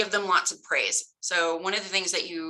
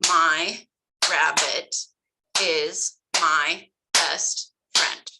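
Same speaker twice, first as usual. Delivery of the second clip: slow, each syllable clapped out apart; slow clapped syllables with the student; 4 dB louder, much slower than usual. Shown as a demonstration. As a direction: chant it slowly, one clap per syllable. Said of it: "ask your student to also clap".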